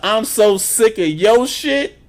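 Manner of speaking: slow, high, loud fed-up drawl; slowed hammed-up tough-guy line; drawn-out tough guy. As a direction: stretch every word out like a final warning. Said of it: "That's a".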